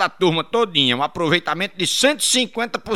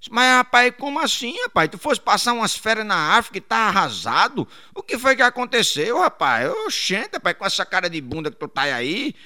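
shocked friend; 6 semitones higher than usual. Acted. Friend demanding what happened, high and astonished. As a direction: react in disbelief.

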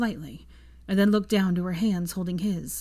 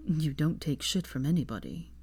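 teasing lightly; 2 semitones lower, 4 dB quieter than usual. Acted. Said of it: "he teased lightly".

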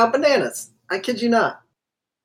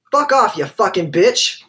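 swearing tirade; 4 dB louder, slower than usual. Retold or imitated. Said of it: "let me get the quote right".

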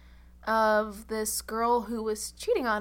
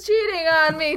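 loud, higher soap-opera anguish; dramatic overacting; 8 semitones higher, 11 dB louder than usual. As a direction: overplay the shock for TV. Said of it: "we were all just like".

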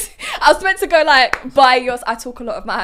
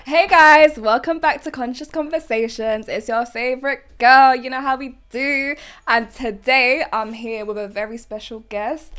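podcast intro. Acted. Host opening the episode to viewers, upbeat presenter voice. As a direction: welcome the viewers like a show host.

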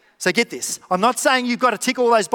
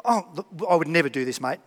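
chuckling, mock innocent protest; laughing denial; 2 semitones lower than usual. Friend at church laughs off gossiping about Brendan, amused denial. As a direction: laugh it off like you'd never gossip. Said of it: "And they go".

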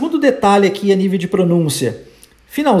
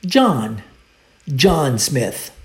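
model for repetition; 6 semitones lower, much slower than usual. Shown as a demonstration. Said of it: "Let's repeat".

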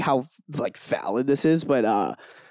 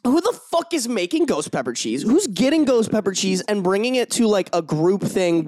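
incredulous rant; 3 semitones higher than usual. Retold or imitated. Outraged retelling of spicy cheese.

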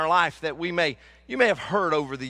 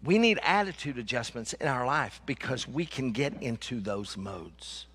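lower, measured restatement, fading softer at the end; deliberately slow; 5 semitones lower, 4 dB quieter than usual. Shown as a demonstration. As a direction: say it slowly and deliberately for the listeners. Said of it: "We're gonna say it real slow".

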